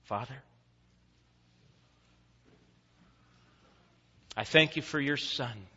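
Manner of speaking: soft, low prayer with pauses. Real, not acted. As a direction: speak reverently to God, softly. Closes in prayer.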